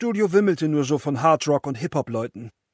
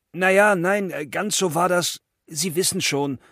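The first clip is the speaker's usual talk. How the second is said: stammering; 3 semitones higher than usual. Retold or imitated. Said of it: "stotterte ich herum".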